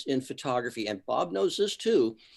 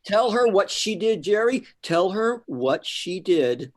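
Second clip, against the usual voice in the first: laughing urging; 7 semitones higher, 4 dB louder than usual. Real, not acted. Laughing, urging Jerry to tell her.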